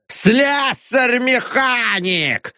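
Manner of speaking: high, slow mocking shout; shrieked insult. A narrator's reading. Janitor shrieks insults before the gathered onlookers. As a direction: shriek it at the crowd. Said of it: "вскрикивал дворник".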